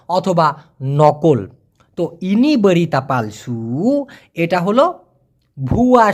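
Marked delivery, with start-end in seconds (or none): 2.2-4.0 very slow, even Malay; slow Malay phrase. Shown as a demonstration. Teacher repeating Malay phrase, very slow. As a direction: repeat it slowly word by word. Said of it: "teacher repeats Malay phrase".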